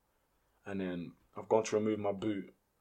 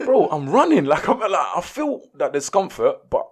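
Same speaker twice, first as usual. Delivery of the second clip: much louder and higher, laughing through the words; laughing excitedly; 8 semitones higher, 13 dB louder than usual. Real, not acted. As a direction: laugh out the memory of pushing on. Laughing while retelling the match.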